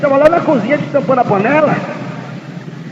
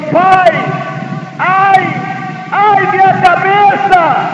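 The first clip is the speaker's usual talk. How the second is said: put-on boy crying out in pain; 5 semitones higher, much slower than usual. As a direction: call out to father in pain, drawn out. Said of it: "E o menino gritou".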